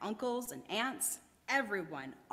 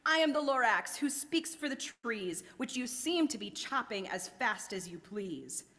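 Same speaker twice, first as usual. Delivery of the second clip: stern, raised voice; snapping Lorax; 2 semitones higher than usual. Acted. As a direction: snap it out sharply. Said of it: "He snapped".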